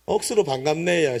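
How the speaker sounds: Gyeongsang greeting with lilting tune; Gyeongsang dialect. Shown as a demonstration. Preacher models greeting for neighbors, in Gyeongsang dialect. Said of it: "경상도 말로 우리 인사합시다".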